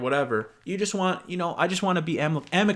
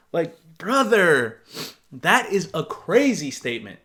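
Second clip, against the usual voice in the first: incredulous; 4 dB louder, slower than usual. Real, not acted. Reacting to crazy statement.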